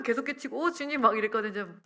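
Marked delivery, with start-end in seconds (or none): 0.6-1.0 mock excited cry to the Lord, pitched higher; excited exclaim. Telling the pastor she is healed, hammed-up excited exclaim. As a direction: retell the fuss with a lively lift. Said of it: "오두방정을 떨면서".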